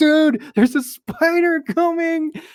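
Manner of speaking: very high, shrill, loud scream. Retelling being chased in a game, calling out to another person: retelling own screaming.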